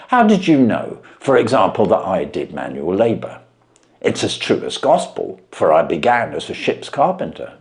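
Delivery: a plain man dumbfounded by the trick; Wilson voiced.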